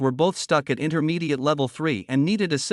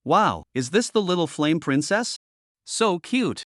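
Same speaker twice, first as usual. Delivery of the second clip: excited; 2 semitones higher than usual. Acted. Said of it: "Edo too excitedly ran up".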